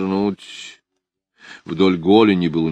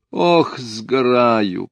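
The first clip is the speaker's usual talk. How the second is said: a slow, higher, drawn-out moan; 6 semitones higher, 3 dB louder, much slower than usual. A narrator's reading. Lida in the sun moaning about the heat. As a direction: moan it lazily. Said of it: "простонала Лида".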